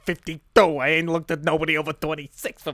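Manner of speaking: put-on New Jersey tough-guy accent. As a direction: brush her off in a mock New Jersey accent. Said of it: "let's retire these accents".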